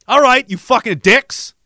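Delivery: pumped-up playful cursing at teammates; mock insults. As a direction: rib them like an exhausted buddy. Cursing his taller teammates.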